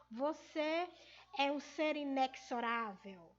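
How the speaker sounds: inexorável with x said as ks; mispronunciation. Shown as a demonstration. Teacher giving an example of the common error, inexorável with ks. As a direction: put a hard ks into inexorável. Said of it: "não é a pronúncia correta".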